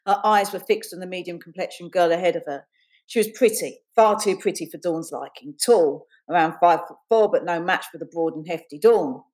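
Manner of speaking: measured, deliberate read-aloud; reading prose aloud, unhurried; story narration. A narrator's reading. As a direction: narrate the scene with careful phrasing. Reads her story aloud.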